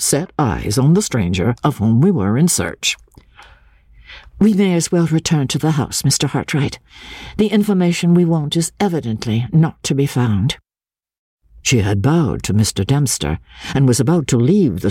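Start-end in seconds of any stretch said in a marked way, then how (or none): 4.4-10.6 lady's voice. Acted. Miss Halcombe voiced.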